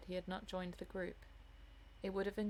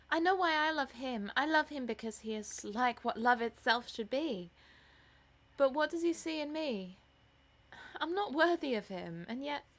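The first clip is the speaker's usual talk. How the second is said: put-on higher, louder girl in love; love-struck daughter, rapturous; 5 semitones higher, 6 dB louder than usual. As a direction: pour out your love to mother.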